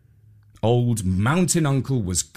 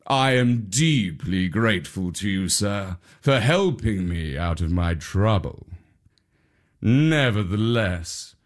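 tiger; 4 semitones lower than usual. Acted. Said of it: "saying to the shaven-headed priest".

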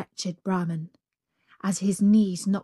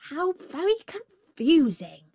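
higher, puzzled jackal; 8 semitones higher than usual. Acted. The jackal feigns confusion, higher voice. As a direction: play the jackal dim.

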